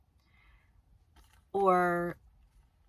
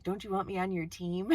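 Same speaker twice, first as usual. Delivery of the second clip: laughing; 3 semitones higher, 5 dB louder than usual. Pretend. Playful imagined plea, laughing.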